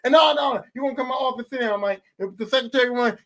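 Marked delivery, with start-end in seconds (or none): 0.0-2.0 lightly acted scolding owner; stern team owner. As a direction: play a boss laying down the law. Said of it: "If I'm the owner of a team".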